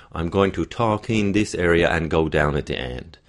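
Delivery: "I'm going to talk in this area" in mid pitch, dropping on "end"; statement contour. Shown as a demonstration. Coach modelling a normal statement, pitch falling on "end". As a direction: stay in normal range and go down at "the end". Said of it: "if my normal statement sentence would be".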